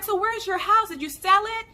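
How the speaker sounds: eager fan. Retold or imitated. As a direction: lightly mimic a fan's excited questioning. Imitating subscriber's eager questions.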